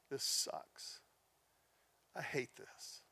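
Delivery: soft, near-whispered comfort to a friend; hushed boy. Retold or imitated. Twelve-year-old comforting his friend Mike, hushed.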